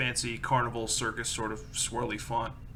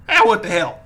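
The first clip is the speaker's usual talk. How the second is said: loud, high exasperated shopkeeper; loud gruff shopkeeper voice; 8 semitones higher, 14 dB louder than usual. Acted. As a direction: throw up your hands and shout it. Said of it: "he goes".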